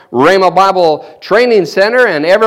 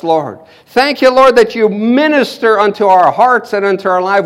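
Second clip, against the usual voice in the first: prayer. Acted. Prays softly to the Lord.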